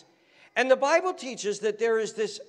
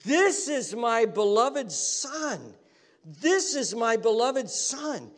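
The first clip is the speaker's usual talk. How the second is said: booming voice of God; slower than usual. Acted. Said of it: "this voice booms out of heaven".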